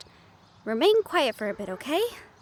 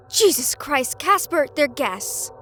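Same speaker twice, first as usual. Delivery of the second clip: exasperated scolding; 4 dB louder, slower than usual. Acted. Scolding ghost in front of guests.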